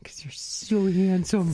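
teasing whisper. Acted. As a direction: breathe it like a secret.

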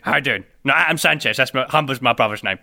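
laid-back Cockney lad introducing himself; a lightly put-on Cockney character, chuckling; Cockney accent. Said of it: "I speak like a Cockney".

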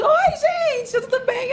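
breezy mother acting like nothing happened; mimicked mother. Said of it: "como se nada tivesse acontecido".

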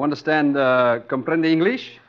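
very slow, overly careful English; slow, patronising question to the waitress; slow for a foreigner. Acted. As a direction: spell it out slowly for someone who barely speaks English. Speaking slowly to a Spanish speaker.

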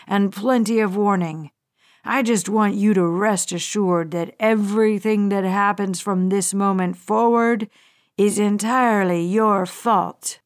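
a hint of a patient, threatening hijacker; menacing hijacker. Hijacker Bradley addresses Weston.

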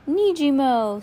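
high, loud shrieking cry; little sister squealing; baby shriek. A narrator's reading. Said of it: "Sunny shrieked".

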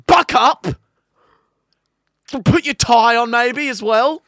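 loud, high, fired-up drill-sergeant push; rousing shouted pep talk. Acted. Host shouting a motivational speech at lazy listeners, fired-up yell. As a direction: yell them off the couch.

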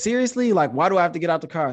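high, incredulous back-talk; retold indignant challenge; smart-aleck protest. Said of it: "this is where the real smart aleck comes out".

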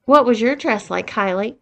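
lilting, teasing sing-song question; sing-songy voice. Acted. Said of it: "asked Beth in a sing-songy voice".

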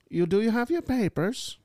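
bad German accent. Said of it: "I could do that one pretty good".

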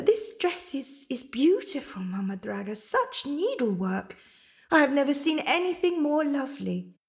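put-on polite, admiring girl; gentle Rosetta. Rosetta admiring Mama Draga's needlework and offering to mend, sweet and polite.

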